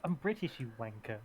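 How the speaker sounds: "British" said without its T; dropped T in British. Real, not acted. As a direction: drop the T in "British". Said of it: "is that British without the T?".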